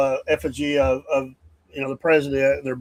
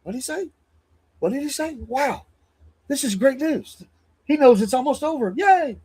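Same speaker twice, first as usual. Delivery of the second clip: high, mock-giddy cheering voice; mock Democrats cheering bad news; mocking gleeful Democrats; 8 semitones higher than usual. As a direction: ham up gleeful opponents celebrating. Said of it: "I can just see some Democrats out there going".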